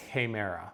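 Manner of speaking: "hemera" opening on a breathy H; aspirated H. Shown as a demonstration. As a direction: aspirate the start of "hemera" with an H sound. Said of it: "forward-facing is gonna give you that".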